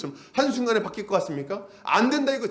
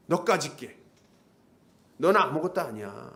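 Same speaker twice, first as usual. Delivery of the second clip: belittling devil. Acted. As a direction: put them down as the accusing devil. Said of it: "마귀가 우리 안에서 막 얘기하는 거야". (깔보며 낮게 깔리는 마귀의 말투)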